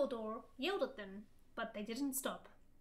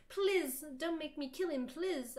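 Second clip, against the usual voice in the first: begging; 3 semitones higher, slower than usual. Acted. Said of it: "I begged".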